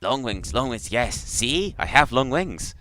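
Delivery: high, excited creature voice; thrilled little insect creature, gushing; delighted creature. Acted. Creature receiving its new name, high delighted voice.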